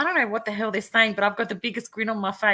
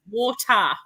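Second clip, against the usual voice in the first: Australian "Water", said "wɔtə" with no r and a falling end; Australian accent; 2 semitones higher, 4 dB louder than usual. Shown as a demonstration. Cohost teaching the host an Australian "Water", Australian accent. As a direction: teach the Aussie "Water", dropping the r. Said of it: "say it with me".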